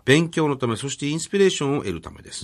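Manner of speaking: even, measured formal read-out; reading a letter aloud. Real, not acted. Radio host reads an author's thank-you letter to co-host, formal read-out. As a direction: read the polite letter out, clause by clause.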